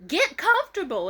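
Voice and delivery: high, loud, mocking yell; shrieking taunt at the departing girl. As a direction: yell it like a jeering rival. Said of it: "The bitch yelled out".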